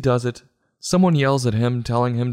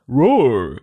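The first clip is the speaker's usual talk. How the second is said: mock roar; 5 dB louder than usual. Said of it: "and shouts".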